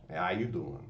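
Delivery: Joey Tribbiani. Retold or imitated. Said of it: "the old Joey Tribbiani".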